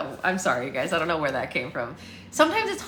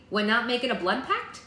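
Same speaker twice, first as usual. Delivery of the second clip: mildly puzzled, higher-pitched query; innocent question; 6 semitones higher than usual. Acted. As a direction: ask it as if perfectly normal. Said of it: "Lucy asked innocently".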